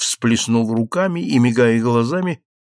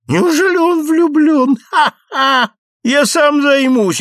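laughing; 14 semitones higher, 5 dB louder than usual. Acted. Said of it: "вот ты уж и смеёшься".

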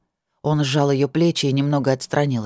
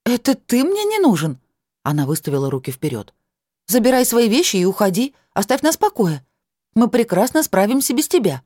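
high, loud angry woman; 7 semitones higher, 3 dB louder than usual. A narrator's reading. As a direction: throw him out, furious. Woman angrily sends him away.

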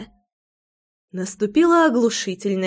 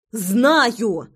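заорала. A narrator's reading. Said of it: "заорала я".

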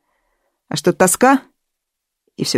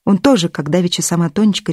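ordinary delivery, nothing marked

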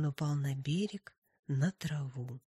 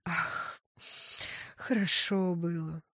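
wistful sigh. Acted. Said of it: "вздохнул он".

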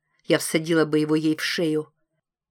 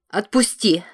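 panting, loud, higher demand; breathless demand; 4 semitones higher, 6 dB louder than usual. A narrator's reading. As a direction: gasp it out, choked. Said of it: "тяжело дыша требует Ла".

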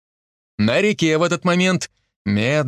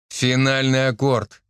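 curt command; slower than usual. Acted. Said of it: "коротко распорядился Никитич".

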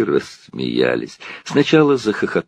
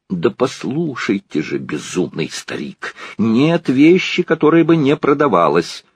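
insistent lady; 6 semitones higher than usual. A narrator's reading. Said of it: "настаивала дама".

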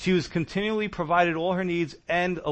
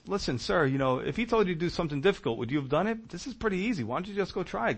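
softer, soothing servant's plea; calming; 3 semitones higher, 5 dB quieter, faster than usual. Retold or imitated. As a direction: talk an angry master down, softly. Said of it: "Naaman's servant calms him down".

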